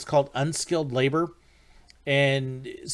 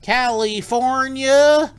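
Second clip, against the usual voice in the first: high, loud, long drawn-out answer; sheepish confession; 9 semitones higher, 7 dB louder, much slower than usual. Retold or imitated. Guide admitting to a Houston fan where he's from, sheepishly drawn out. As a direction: stretch the word out high and slow. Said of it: "And I was like".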